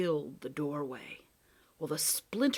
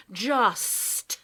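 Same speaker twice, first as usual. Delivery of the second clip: very slow, hurt resignation; wounded cat; much slower than usual. Acted. Cat answers Lindy's outburst, hurt and resigned. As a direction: swallow the insult.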